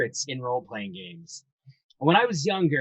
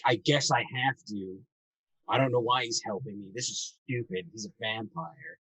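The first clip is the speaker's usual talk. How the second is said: begrudging; 3 semitones lower, 3 dB quieter than usual. Retold or imitated.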